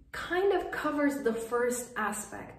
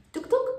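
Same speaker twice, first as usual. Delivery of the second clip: mock knocking sound; 12 semitones higher, 5 dB louder than usual. Mock knock on numb heart.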